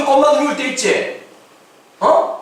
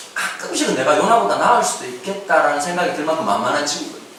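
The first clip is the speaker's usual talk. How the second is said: usual speaking voice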